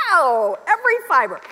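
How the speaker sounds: exaggerated howl of protest; mock-horrified cry. Tourist recalling her reaction to a marketing story, mock-horrified cry. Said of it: "It was like".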